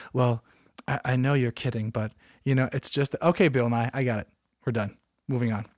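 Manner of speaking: mock the guy who can't take a joke; imitating humorless doctor. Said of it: "Don't feel like you have to explain".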